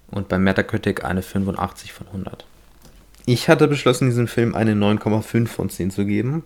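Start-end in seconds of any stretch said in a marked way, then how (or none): 3.2-4.1 "hatte" lifted high in pitch; stress on HATTE. Real, not acted. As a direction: lean on "hatte" to mark it as past. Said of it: "Betonung liegt auf hatte".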